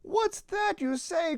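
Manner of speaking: high frightened whisper; with dread. A narrator's reading. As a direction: gasp it out, scared of what's coming. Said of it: "cried the donkey with dread".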